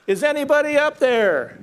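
high, frantic call upward from the cliff; desperate yell. Retold or imitated. Man hanging off a cliff calls upward for help, high and desperate. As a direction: cry out for help, mildly hammed-up. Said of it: "and so he yells".

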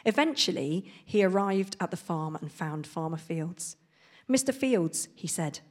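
storybook reading voice; reading to children. Acted. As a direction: read it like a picture book to kids. Reads picture book aloud.

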